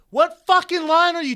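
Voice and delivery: high, loud, drawn-out shout; yelling back. Retold or imitated. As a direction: re-enact yelling back at a bartender. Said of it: "We're yelling at each other now".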